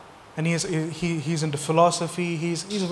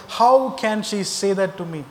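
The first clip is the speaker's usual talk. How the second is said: louder, higher, drawn-out offended protest; mock indignation; 4 semitones higher, 5 dB louder, slower than usual. Young person complaining about a friend's mistake, mock indignant. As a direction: act out being slighted by a friend.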